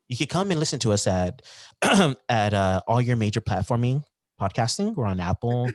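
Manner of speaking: smooth radio host voice; calm announcer read. Acted. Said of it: "I love your radio voice".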